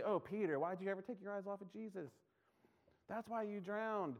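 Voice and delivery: mock scolding. Mock critics scolding Peter.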